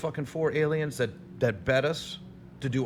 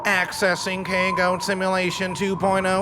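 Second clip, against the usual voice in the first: robot voice; 5 semitones higher, 3 dB louder than usual. Acted. Starts alien simulation.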